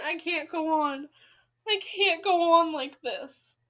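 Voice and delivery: mock despair. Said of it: "I'm just kidding".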